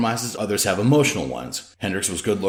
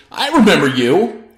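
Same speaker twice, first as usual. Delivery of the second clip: slow accusing recognition; 9 semitones higher, 7 dB louder than usual. A narrator's reading. Antics confronts the anchor.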